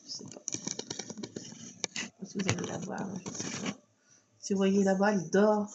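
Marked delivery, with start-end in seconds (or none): 0.1-3.8 soft whisper so the cat sleeps on; whispered aside near a sleeping cat. Real, not acted. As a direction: hush so you don't wake her. Whispering so sleeping cat not woken.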